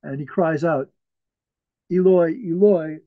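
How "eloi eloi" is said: crying out, louder than the telling; retold loud cry. Preacher quotes Jesus on the cross, crying out. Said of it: "with a loud voice".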